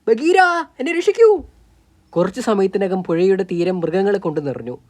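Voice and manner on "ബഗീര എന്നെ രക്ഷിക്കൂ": put-on high, louder frightened child calling out; small boy shouting for Bagheera, high and scared; child's cry for help. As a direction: scream for rescue from the ghost's grip. Captured child cries for help.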